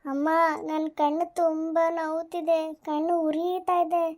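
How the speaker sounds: whimpering. Acted. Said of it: "ಯಾಕ್ ಅಳ್ತಿದ್ಯಾ ಮಿಂಕು?".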